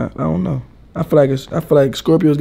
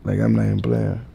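sexy voice; 4 semitones lower than usual. Pretend. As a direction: put on a sultry rasp. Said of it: "it's my sexy voice".

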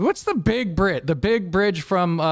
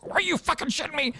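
incredulous outrage; 10 semitones higher, 5 dB quieter, faster than usual. Retold or imitated. Vic hearing the client won't pay, quick outraged disbelief. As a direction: spit it out in fast disbelief. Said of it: "Vic goes".

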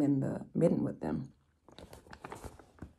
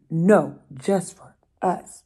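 louder, slow group no; firm refusal; 7 dB louder, slower than usual. Acted. The animals refuse bear, loud and slow. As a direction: hold the line.

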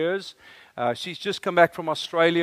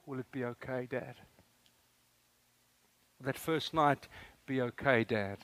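daughter's plea; 3 semitones lower, 9 dB quieter than usual. Pretend. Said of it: "And they come to me and say".

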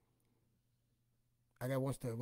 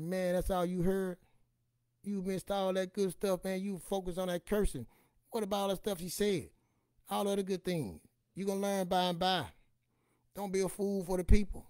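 preachy retort; 7 semitones higher, 6 dB louder than usual. Retold or imitated. Comic scolding people who mock grandma's cursing. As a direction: lecture them like a preacher. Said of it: "I said".

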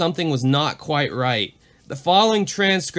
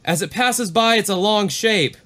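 higher, tense report; pilot; 6 semitones higher than usual. Retold or imitated. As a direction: describe it with unease.

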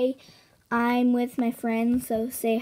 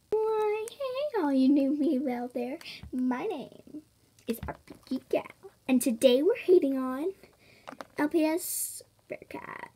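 RPG Gal impression; 2 semitones higher than usual. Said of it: "I do a perfect imitation of this".

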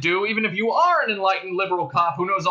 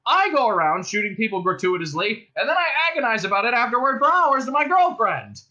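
loud, high indignant cop speech; bullhorn voice; 8 semitones higher, 4 dB louder than usual. A narrator's reading. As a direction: harangue them across a distance. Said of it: "and then the bullhorn again".

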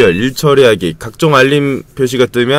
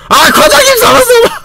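very high, whining near-crying cries; frantic wail; 11 semitones higher than usual. Real, not acted. Overworked intern begging the manager to stop, frantic high wail. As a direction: plead while drowning in work.

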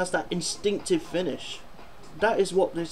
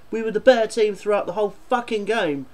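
raised, exasperated 'better' pushed hard; annoyed rant; 4 semitones higher, 3 dB louder than usual. Real, not acted. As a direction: vent that the team deserved it. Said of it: "I'm seriously getting annoyed".

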